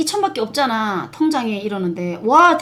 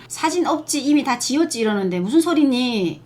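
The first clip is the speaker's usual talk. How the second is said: ordinary delivery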